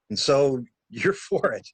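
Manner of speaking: slow line broken by a real laugh; laughing through the line. Real, not acted. Actor retaking the scene line, laughing. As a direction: crack up mid-line and push on.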